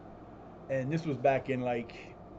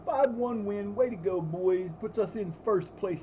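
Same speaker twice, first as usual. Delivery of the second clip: excited; 6 semitones higher, slower than usual. Real, not acted. Cheering game result.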